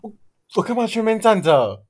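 high, loud, slowed whine; whiny rant. Real, not acted. Complaining to co-hosts about pointless standing, high drawn-out whine.

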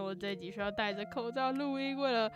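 muffled by a face mask; talking through a mask. Real, not acted.

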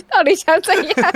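what is going on, said slowly and high; exasperated. Real, not acted. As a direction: throw up your hands in disbelief. Exasperated laughing outburst.

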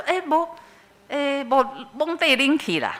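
high, lightly voiced old lady giving in; old mother-in-law. Mother-in-law giving in to daughter-in-law, high old-lady voice. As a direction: play the grumbling old mother-in-law agreeing after all.

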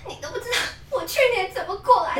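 fast mock sob through laughter; hammed-up weepy drunk complaint; imitating a crying friend, half-laughing; imitating drunk sobbing. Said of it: "他也是这样".

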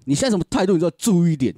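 cop scolding, voice pitched high until it cracks; voice cracking. Retold or imitated. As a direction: yell so hard the voice breaks. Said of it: "然后给我破音". (破音地骂人)

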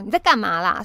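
sharp scolding shout at a bully; 推开他时大声斥责; loud scolding. Retold or imitated. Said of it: "大声的斥责他说".

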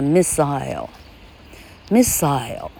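"missile" in British English, "MIS-sile", ending rhymes with "aisle"; British pronunciation of "missile"; British accent. Shown as a demonstration. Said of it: "英国音叫做missile".

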